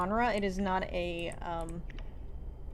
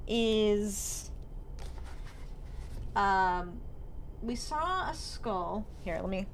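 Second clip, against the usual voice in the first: talking around a pen in mouth; 4 dB quieter, slower than usual. Real, not acted. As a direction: speak with a pen between teeth. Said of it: "I have a pen in my mouth".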